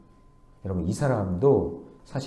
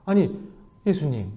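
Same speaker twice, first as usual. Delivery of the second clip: mildly pleading, a little higher; polite pleading; 4 semitones higher than usual. Shown as a demonstration. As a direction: demonstrate a humble, courteous plea. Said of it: "이렇게 얘기했어야죠".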